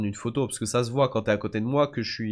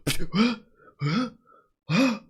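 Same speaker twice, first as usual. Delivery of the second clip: higher, voice of the crowd, mock-excited; 11 semitones higher, 4 dB louder, slower than usual. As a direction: echo the hyped-up fans.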